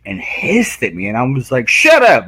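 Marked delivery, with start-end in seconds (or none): 1.7-2.3 high, loud mock yell; retold yell. Retelling telling off a hissing tortoise, mock yell. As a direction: yell back at a hissing animal.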